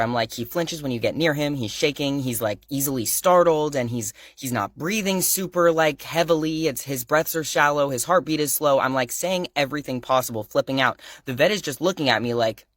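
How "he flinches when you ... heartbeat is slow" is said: quick, higher frantic pleading, mildly acted; a touch of panic, rushing through the symptoms; retold panic. Panicked dog owner tells the vet the symptoms, mild mock panic. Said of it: "So I'm flipping out".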